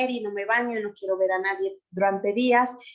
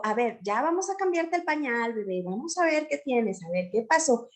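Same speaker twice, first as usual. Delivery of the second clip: calm mother's voice. Shown as a demonstration. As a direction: talk the baby through it calmly. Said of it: "le hablo con este tono tranquilo".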